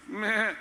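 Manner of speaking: a short bleat; sheep bleat. Acted. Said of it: "Pegou o sotaque da ovelha". (balido de ovelha)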